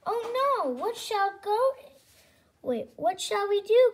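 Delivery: hammed-up storybook panic; mock alarmed cry. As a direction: play up the wife's alarm. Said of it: "cried the farmer's wife".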